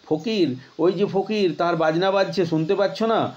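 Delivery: hear faraway music in it; wondering child. Acted. Boy hears distant music.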